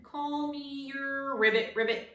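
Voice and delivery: the words turn into frog croaks; croaking frog. Acted. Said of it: "tried again".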